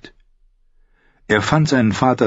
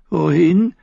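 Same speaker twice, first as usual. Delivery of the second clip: higher voiced bitter son, probing his father; a higher, defiant son testing his father; Tyrion's voice; 11 semitones higher than usual. Son asking his father about punishment, higher defiant voice.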